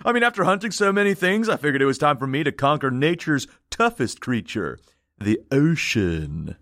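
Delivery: lightly voiced surfer dude, dropping low at the end; a hint of beach bum; dumb surfer. Ventriloquist explains the dead man's surfing, lightly voiced dumb surfer. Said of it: "like he's some dumb surfer".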